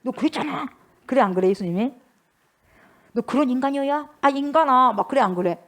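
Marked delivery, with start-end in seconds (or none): 0.0-0.7 high-pitched, pointed accusation; mock accusing. Imagined Jesus glaring at Peter, mock accusation. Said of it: "베드로를 막 째려봐". 3.1-4.9 higher, exasperated put-down; mock reproach. Imagined Jesus berating Peter, mock reproach. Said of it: "베드로를 막 째려봐".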